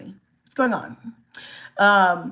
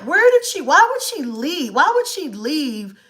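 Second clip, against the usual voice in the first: panicked mom; 7 semitones higher, slower than usual. Retold or imitated. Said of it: "I'm like".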